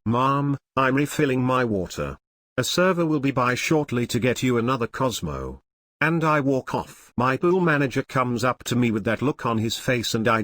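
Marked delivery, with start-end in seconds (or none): 0.0-5.6 firm lifeguard voice; stern, official warning; guard voice. Retold or imitated. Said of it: "so I say it again in my guard voice".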